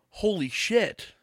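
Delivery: slow, high, loud amazed gasp of thanks; drawn-out, delighted holy shit; mock surprise. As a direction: play the stunned gift receiver. Friend receiving a surprise gift.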